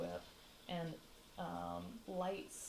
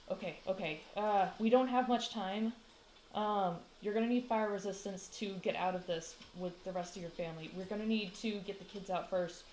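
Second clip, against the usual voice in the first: mildly raised, hurried rescuer's urgency; urgent; 6 dB louder than usual. Acted. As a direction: take charge under pressure, a touch breathless with urgency. Rescuer hurries family out of fire.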